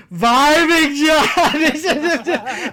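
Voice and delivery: high, loud cheery chorus of one; hammed-up long-distance send-off, laughing; family calling goodbye, imitated. Family on Skype seeing Big John off, loud calling.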